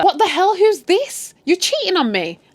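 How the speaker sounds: high, loud, shrieking outrage; furious at being cheated on; outraged shout. Retold or imitated. Husband bursting in on his wife and her lover, shrieking.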